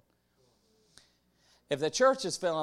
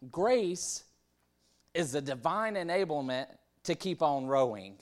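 higher, declaiming imitation of a preacher; 4 semitones higher, 4 dB louder than usual. Preachers defining grace to the congregation, imitated preacher voice. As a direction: proclaim it high like a preacher. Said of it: "get my, my good preacher voice".

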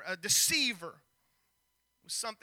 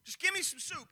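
desperate hungry plea; 4 semitones higher than usual. Retold or imitated. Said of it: "Esau is so hungry".

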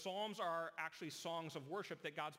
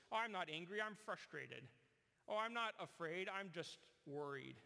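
mock denial. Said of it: "We use other words".

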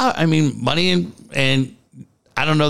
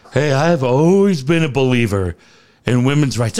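mock virtue signaler; 3 semitones lower than usual. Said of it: "I'm so sick of everybody".

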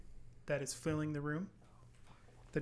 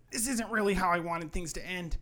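resigned elf; 4 semitones higher, 4 dB louder than usual. Acted. GM voices Hermie's farewell.

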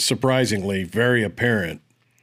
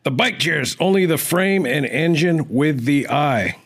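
higher, slow mock German accent; 5 semitones higher, slower than usual. Carrying on a viewer's comment, put-on German accent. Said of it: "in German accent".

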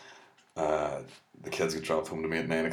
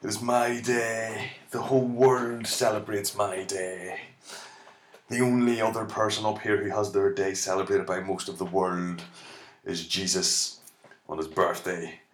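smug Saint Patrick; 3 semitones higher than usual. Retold or imitated. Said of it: "Patrick just waltzing through heaven, going".

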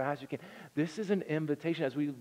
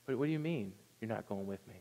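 stunned disbelief; 5 semitones lower, 7 dB quieter, faster than usual. Retold or imitated. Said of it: "It could have been the worst words that Moses ever heard".

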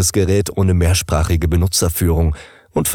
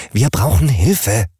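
pleading fridge; 4 semitones higher than usual. Acted.

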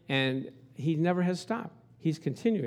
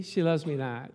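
doubting lover; 3 semitones lower than usual. Retold or imitated. Lovestruck guy picking petals, deflated drop. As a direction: let "She loves me not" sink down, deflated. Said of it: "See, the guy's excited".

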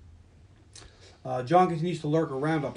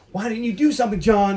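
louder, higher self-scolding; arguing with myself; 6 semitones higher, 8 dB louder than usual. Retold or imitated. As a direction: yell at yourself in frustration. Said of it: "John argues with himself".

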